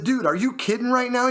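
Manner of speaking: high-pitched disbelief; incredulous. Retold or imitated. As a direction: retell it as a baffled challenge. Retold disbelief at caller's news.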